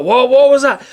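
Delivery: high, loud startled shout; startled giant. A narrator's reading. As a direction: jolt awake and bellow.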